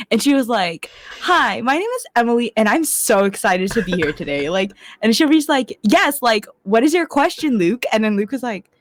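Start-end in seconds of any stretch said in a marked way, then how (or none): 1.2-4.5 mock perky self-introduction, lively swooping pitch; over-projected Emily. Introducing herself in a meeting, mock over-projected eagerness. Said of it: "Why are you yelling?". 5.8-7.8 high-pitched mock meeting voice; over-projected Emily. Taking Luke's question, high over-projected mock eagerness. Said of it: "Why are you yelling?".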